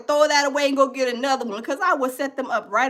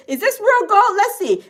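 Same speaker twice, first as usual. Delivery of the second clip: mock machine voice; 6 semitones higher, 3 dB louder than usual. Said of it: "It reads the".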